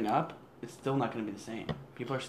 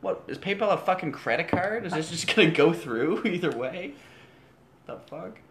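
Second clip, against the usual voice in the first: incredulous outburst; 6 semitones higher, 8 dB louder than usual. Retold or imitated. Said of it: "and I was like".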